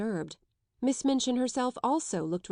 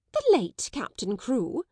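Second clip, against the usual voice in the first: slow, higher, a touch louder; shocked cry; 5 semitones higher, 4 dB louder than usual. Acted. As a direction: cry it back in disbelief. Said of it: "she cried out".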